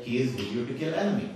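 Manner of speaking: lightly South Asian-accented, casual; family's South Asian accent. Shown as a demonstration. Brother speaking to his sister, light South Asian accent. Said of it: "if I was speaking to my sister, I would say".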